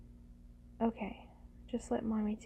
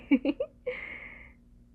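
loud, higher giggle; 6 semitones higher, 7 dB louder than usual. Acted. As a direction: giggle at own teasing. Teasing the partner.

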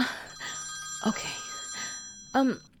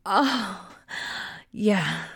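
normal talking voice

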